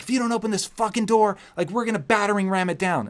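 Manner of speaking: high, mock furious police threat; cop threat. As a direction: threaten like a cop about to ram the door. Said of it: "And they're like".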